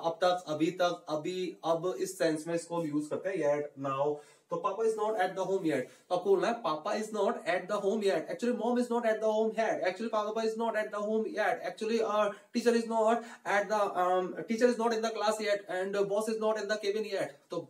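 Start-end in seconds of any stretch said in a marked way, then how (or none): 4.6-5.8 slow and clear; slow model line. Shown as a demonstration. Teacher modelling the sentence, slow and clear. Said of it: "जल्दी जल्दी तो आपको practice करेंगे". 6.5-17.4 slow, deliberate model sentences; slow drill. Shown as a demonstration. Teacher drilling variants for students, slowly. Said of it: "धीरे धीरे बोलना है आपको".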